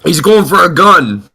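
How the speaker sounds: slow, high, loud mock warning; mock alarm. Player jokes that the man is going for a gun, mock alarm. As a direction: call out a hammed-up alarm, drawn out.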